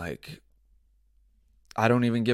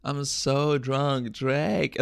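lightly voiced slow drunk whine; a hint of tipsy pleading, imitated; drunk thot tweet; 3 semitones higher, much slower than usual. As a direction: draw the words out like a mock drunk. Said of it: "a dude acting like a, a, a thot".

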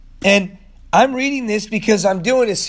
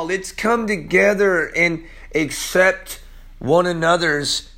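slow and deliberate; earnest appeal; slower than usual. Acted. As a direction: plead it slowly and sincerely. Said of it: "stop and say".

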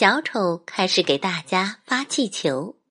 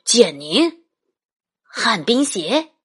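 grandpa voice; 6 semitones higher, 5 dB louder than usual. Acted. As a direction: panic building to a cry. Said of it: "爸爸说".

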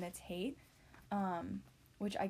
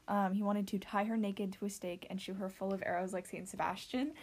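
holding back a laugh; trying not to laugh while reading; stifled giggles. Real, not acted. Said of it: "The fact that you're trying not to laugh".

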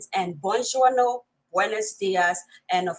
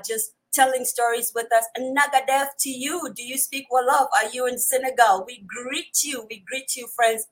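ordinary talk

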